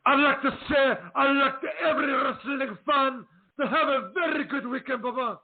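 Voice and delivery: put-on high, accented wrestling promo sign-off; Iron Sheik impression. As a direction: wish the fans a good weekend as the Sheik. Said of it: "I could close out the broadcast".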